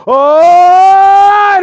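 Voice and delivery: high, loud excited "Oh!"; excited crowd gasp. Retold or imitated. Students at school seeing a fight break out, excited shout. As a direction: react like kids spotting a fight.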